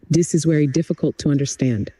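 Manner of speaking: English with a mild Indian accent, very said as wery; a hint of Indian English; light Indian accent. Shown as a demonstration. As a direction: demo the Indian accent gently, T and D hard. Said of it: "Com sotaque indiano".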